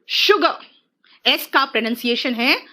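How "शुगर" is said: शुगर starting with श, ʃʊɡə; sh sound demo. Shown as a demonstration. Teacher models sugar for pupils: शुगर with sh. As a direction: lean on the श of शुगर. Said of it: "एस का pronunciation है श".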